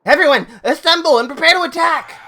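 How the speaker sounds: high, loud acted command; rallying battle cry. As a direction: call the troops to arms. Character rallies troops to attack.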